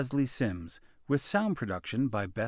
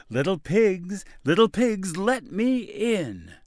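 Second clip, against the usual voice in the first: wolf voice; 7 semitones higher, 5 dB louder than usual. A narrator's reading. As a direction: call out to the pigs like a wolf. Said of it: "he called".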